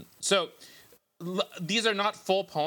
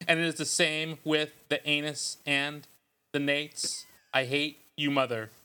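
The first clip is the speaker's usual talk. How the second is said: poet voice. Pretend. Host reads fake poems to co-hosts, mock poet voice. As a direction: intone it like a self-serious poet, pausing between phrases. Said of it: "Let me get my poet voice ready".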